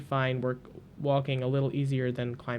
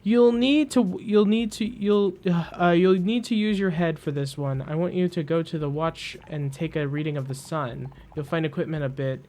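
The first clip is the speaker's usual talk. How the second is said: louder, hurried, stammering instructions; a twitchy Mechanist cutting the Glider off; rushed Mechanist; 3 dB louder than usual. Acted. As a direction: tumble over the words without pause. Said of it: "Colin has no time for it".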